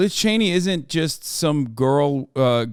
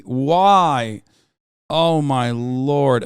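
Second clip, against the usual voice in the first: exasperated; 4 dB louder, much slower than usual. Real, not acted. Exasperated reaction to news.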